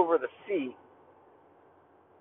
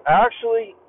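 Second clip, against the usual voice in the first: retold scolding; 7 dB louder than usual. Narrator scolding the laughing guy, firm and loud. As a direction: call him out firmly. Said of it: "And I said".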